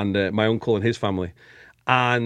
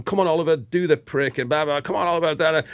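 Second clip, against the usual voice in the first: mock cheering; 4 semitones higher than usual. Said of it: "he's cheering and he's going".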